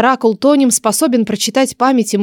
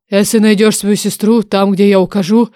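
bargaining dragon oracle. Acted. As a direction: propose a deal with weight. Oracle sets terms.

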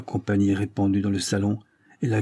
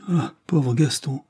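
slow, higher, grieving cry; cry of friendship; 5 semitones higher, slower than usual. Acted. Daughter mourns her friend Gaston in a slow grieving cry. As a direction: let the name ache out slowly. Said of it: "le cri de l'amitié".

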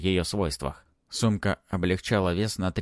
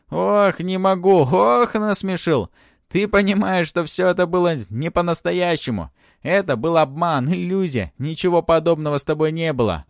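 much higher, louder, gasping through laughter; laughing fit; 10 semitones higher, 7 dB louder than usual. Acted. Dragon Barsik laughing at Ant, much higher and louder. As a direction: cackle out the words, barely able to stop. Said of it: "на смеющегося дракончика".

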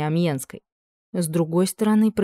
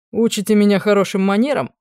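louder, mocking retort; captain mocking the duchess, with a smirk; smirking jibe; 4 semitones higher, 5 dB louder than usual. A narrator's reading. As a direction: sneer back at her lecture. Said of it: "ухмыльнулся тот".

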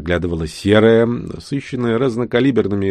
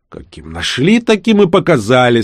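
grumpy retort; 4 semitones higher, 4 dB louder than usual. Acted. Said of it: "сварливо отозвался конец".

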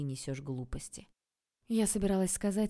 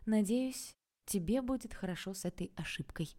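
vengeful; 4 semitones higher than usual. A narrator's reading. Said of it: "мстительно сказала я".

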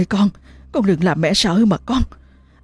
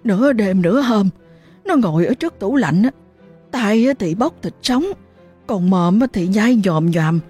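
stammering, higher, hurried telling; flustered; 4 semitones higher than usual. Acted. Mother telling her husband what happened, flustered and higher. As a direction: panicky and tripping over words. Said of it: "luống cuống kể chữ được chữ mất".

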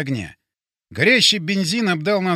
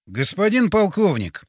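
weary; 3 semitones higher than usual. Acted. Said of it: "устало сказал я".

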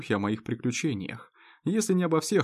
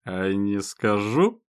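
giggling; 3 semitones lower, much slower than usual. Acted. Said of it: "хихикает Совух".

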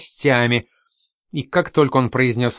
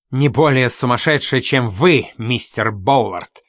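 mildly raised, sharp retort; sharp mild outburst. Acted. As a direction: snap back, slowing on the name. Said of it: "резко выкрикнула мисс Спайн".

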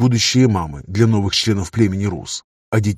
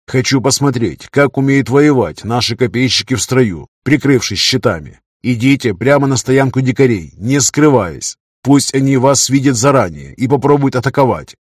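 firm commanding orders; 3 semitones higher, 4 dB louder than usual. Acted. Leader orders spearmen.

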